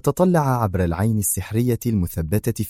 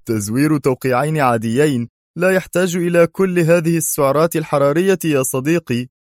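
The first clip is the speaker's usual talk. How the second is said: higher, louder, jokey friend voice; amused teasing; 7 semitones higher, 4 dB louder than usual. Acted. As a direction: tease your friend lightly. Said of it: "ضحك قدري وهو يقول".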